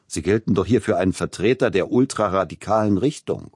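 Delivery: strict critic explains the conservative hall, stern and rising. Acted. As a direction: lecture him firmly about the Gewandhaus. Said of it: "eine deutliche Nuance von Strenge".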